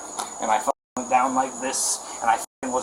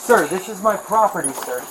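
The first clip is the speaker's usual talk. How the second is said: louder and higher, urgent real plea; desperate pleading; 6 semitones higher, 3 dB louder than usual. Real, not acted. Homeowner pleading with officer during arrest, loud and desperate. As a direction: insist to the officer, pleading hard.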